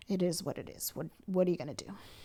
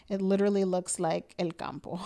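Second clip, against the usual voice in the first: laughing through the words. Real, not acted. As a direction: let the laugh spill out. Laughing about the stage.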